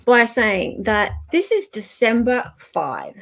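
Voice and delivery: high, emphatic preface; dramatic setup. Real, not acted. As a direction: set the stage theatrically. Dramatic preface before reading.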